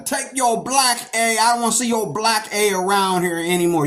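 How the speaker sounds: imitating a racist cop. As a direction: sneer it like a hostile officer. Racist cop voiced in story.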